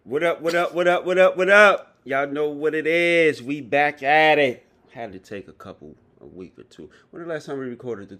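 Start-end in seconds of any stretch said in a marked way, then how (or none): 0.0-4.7 hype greeting. Real, not acted. Podcast opening hype greeting.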